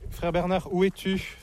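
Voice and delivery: calling a brother who is out of sight. Real, not acted. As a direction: call his name out to find him. Monk calls out for brother.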